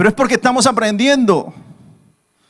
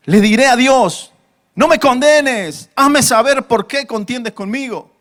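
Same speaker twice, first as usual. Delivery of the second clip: high, drawn-out cry of protest; bitter Job; 5 semitones higher, 3 dB louder, slower than usual. Acted. Preacher reads Job's words to God, bitter outcry. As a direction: plead loudly against being condemned. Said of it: "Hablaré en la amargura de mi alma".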